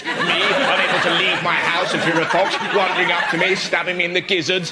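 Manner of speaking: mock rant. Mock rant to imagined toff.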